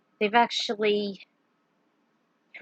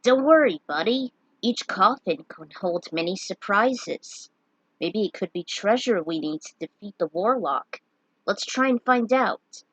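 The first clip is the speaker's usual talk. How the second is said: gleeful. Acted. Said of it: "Bart spoke with glee".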